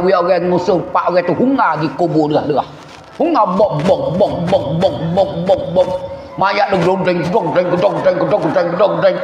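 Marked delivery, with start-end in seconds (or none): 3.4-5.6 rhythmic, repeated "bok" thuds; evenly bouncing sound imitation; imitated thudding. Imitates bearers hurrying with the body. 6.8-9.2 rhythmic clattering sound words; bouncing, repetitive rattle; imitated jolting. Imitates corpse jolting on the bier.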